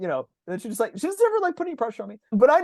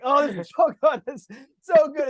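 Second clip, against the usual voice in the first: high-pitched helpless delight; retold food rapture; 7 semitones higher, 4 dB louder than usual. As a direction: gush as if you can't resist it. Retold reaction while eating the dessert.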